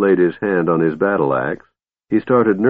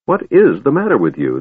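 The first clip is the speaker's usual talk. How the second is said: higher, insistent question; demanding; 5 semitones higher than usual. Acted. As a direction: demand an answer from the dwarf. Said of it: "the Kender demanded".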